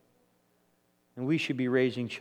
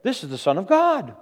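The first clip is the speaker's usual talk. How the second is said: imitating protective disciples scolding people; acted-out indignation, louder toward the end; mock indignant rebuke; 5 dB louder than usual. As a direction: object on Jesus' behalf, building to a loud "how dare they". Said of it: "The disciples are rebuking the people".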